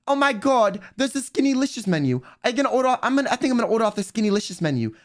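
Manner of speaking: mimicking a friend's hammed-up posh British accent. Friend across the dinner table, posh British accent. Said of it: "in the most posh British accent".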